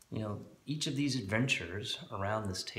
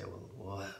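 Sean Connery dwarf; 2 semitones higher than usual. Acted. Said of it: "That's the Sean Connery dwarf".

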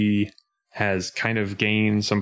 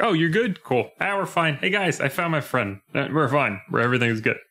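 a higher, breezy, casual Sora; imitating Sora; 5 semitones higher than usual. Sora brushing off his friend's return to the team, higher and breezy. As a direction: toss it off like nothing happened. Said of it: "he's like".

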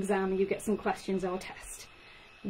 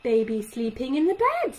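put-on Oh look, then baby sleeping in the bed louder; talk to a toddler; 5 dB louder than usual. Shown as a demonstration. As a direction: show a parent's slightly longer sentence. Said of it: "So you can say".

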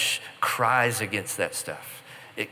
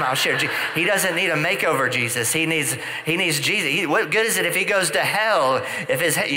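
retold protest rising higher, building to a plea; pleading protest; 4 semitones higher, 3 dB louder than usual. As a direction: argue back with God, rising higher. Beth Moore arguing with Jesus.

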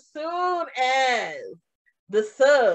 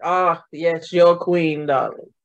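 1 mock diva; 7 semitones lower, slower than usual. Teasing drag queen voice.

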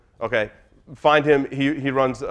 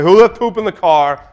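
mock yell; 4 semitones higher, 7 dB louder than usual. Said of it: "I'm yelling ridiculous things".

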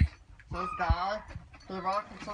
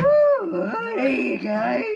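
squeaky helium voice, much higher and louder; 8 semitones higher, 12 dB louder, much slower than usual. Real, not acted. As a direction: talk after sucking a helium balloon. Helium balloon game.

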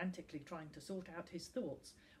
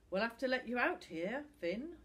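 kindly dismissal in a slightly raised voice; 5 semitones higher, 6 dB louder than usual. A narrator's reading. Tom tells Finn to get out, kindly. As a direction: let him down kindly. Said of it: "Tom said kindly".

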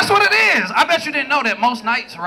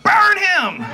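mock crowd cry; 7 semitones higher than usual. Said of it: "black women gonna be like".

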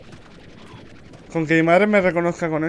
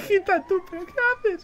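excited; 10 semitones higher, 5 dB louder than usual. Real, not acted. Laughing panic in game.

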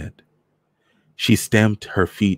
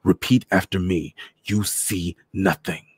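hissing through teeth; 2 semitones higher than usual. A narrator's reading. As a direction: drill each word in as a threat. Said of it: "his voice hissing between his teeth".

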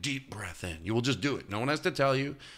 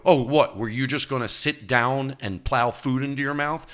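louder, higher mock scold; scolding himself; 5 semitones higher, 5 dB louder than usual. Scolding himself before dinner, a loud sarcastic jab. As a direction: needle yourself sarcastically. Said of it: "I go".

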